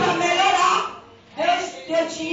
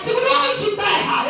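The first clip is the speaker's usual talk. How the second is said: higher, louder mock call of the pastor; retold shout; 9 semitones higher, 4 dB louder than usual. Imitating the pastor calling out to her from the radio, loud. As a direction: shout it like the pastor across the room. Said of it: "a pastora diz na rádio".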